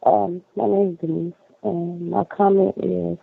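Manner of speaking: muffled, like hand over mouth. Real, not acted. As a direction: speak through a covered mouth. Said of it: "it's coming in real muffled".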